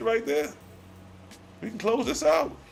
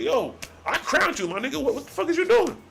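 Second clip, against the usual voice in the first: God as a street homie; 5 semitones higher than usual. Retold or imitated. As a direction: confront a friend who betrayed you. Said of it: "True God is asking".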